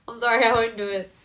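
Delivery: ordinary talk, nothing marked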